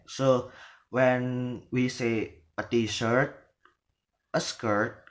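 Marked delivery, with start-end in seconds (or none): 2.6-5.0 tip "t-shirt" and "skirt" upward; "t-shirt" and "skirt" left open with a rise; rising list items. Shown as a demonstration. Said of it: "so it is rising".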